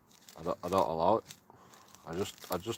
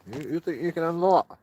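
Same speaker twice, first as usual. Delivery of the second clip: mock tough-guy challenge; 3 semitones higher, 4 dB louder than usual. Mock fight talk to dog.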